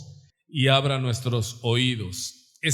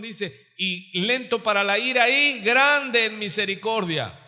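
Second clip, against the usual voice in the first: high, forceful sermon delivery; impassioned preaching; 6 semitones higher, 3 dB louder than usual. Real, not acted. Preacher proclaiming a God who hears, impassioned and high. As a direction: proclaim it to the congregation, pitched up.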